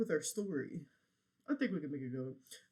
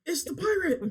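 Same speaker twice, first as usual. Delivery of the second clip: spooky pirate voice; 12 semitones higher, 7 dB louder than usual. Retold or imitated. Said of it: "so I thought you was gonna be like".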